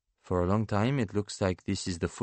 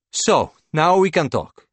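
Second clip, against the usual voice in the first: higher, louder painter's voice; eager painter, suddenly engaged; 10 semitones higher, 8 dB louder than usual. Acted. Painter to banker on hearing of her hero, suddenly engaged. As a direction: pitch up as the painter, newly keen to talk.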